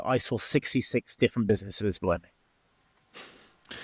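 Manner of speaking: whispered, slow and soft; hushed aside. Real, not acted. Telling the host about failed bars, slow whisper. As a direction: drop to a whisper for the number. Telling a sad bar story.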